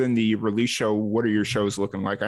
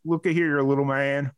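put-on Southern accent; 3 semitones higher than usual. Retelling dad pulled over by small-town cop, mock Southern accent. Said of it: "his little Southern accent".

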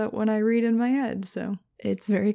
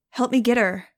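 urgent order; 3 semitones higher, 6 dB louder than usual. Acted. Orders Nudge in the chase.

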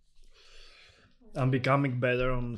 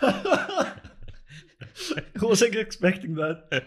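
surprised; 9 semitones higher, 5 dB louder, much slower than usual. Real, not acted. Sudden burning spice hits hard.

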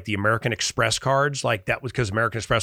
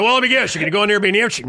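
mocking tease; 10 semitones higher, 7 dB louder, much faster than usual. Mocking himself, laughing at story.

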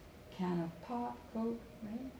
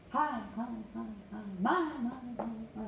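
microphone echo imitation; 2 semitones higher, faster than usual. Shown as a demonstration.

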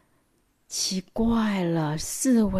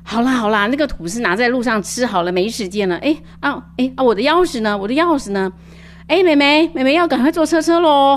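put-on rushed, loud mother hurrying kids out; hurried mom; 4 semitones higher, 5 dB louder than usual. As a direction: nag them to hurry, you're late. (匆忙催促孩子的妈妈)

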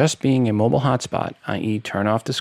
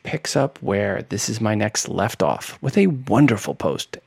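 sarcastic. Real, not acted. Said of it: "I am being one hundred percent sarcastic".

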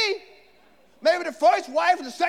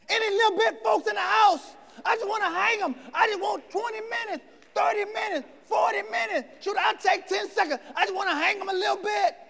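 higher, shouted mock vengeance; mock vengeful cry; 5 semitones higher than usual. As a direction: ham up the grudge. Preacher mocks vengeful heart.

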